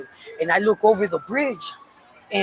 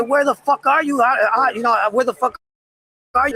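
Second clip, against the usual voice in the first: loud, much higher desperate shout; yelling at God; 5 semitones higher, 3 dB louder than usual. Retold or imitated. Smoking alone, yelling at God to show himself. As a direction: demand an answer from God, yelling. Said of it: "I yell".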